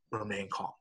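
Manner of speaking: soft, composed reminder to stay calm. Retold or imitated. Dad teaching his boys in a crisis, calm and soft. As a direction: imitate steadying someone, quietly. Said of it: "I try to teach them".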